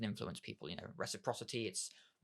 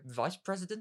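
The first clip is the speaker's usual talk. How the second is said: higher, louder, impressed question; surprised echo; 8 semitones higher, 4 dB louder than usual. Shown as a demonstration. Listener mirroring an old colleague's promotion, surprised. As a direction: repeat it back, impressed.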